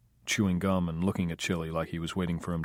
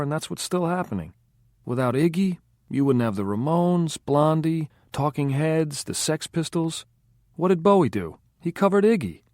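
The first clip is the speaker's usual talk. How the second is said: higher and louder, a fired-up music buff; the speaker getting worked up; 6 semitones higher, 4 dB louder than usual. A narrator's reading. The speaker lecturing the band, fired up and insistent. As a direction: build up the rant about a punk singer.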